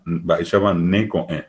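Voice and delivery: slow demo: "Mba'éichapa ne ko'ẽ", nasal ne; nasal ne before ko'ẽ. Shown as a demonstration. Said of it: "con ko'ẽ era".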